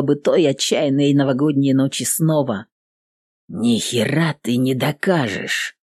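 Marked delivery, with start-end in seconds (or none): 3.5-5.8 slow, icy and low. Acted. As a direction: say it coldly, unmoved. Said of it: "говорит ледяным голосом".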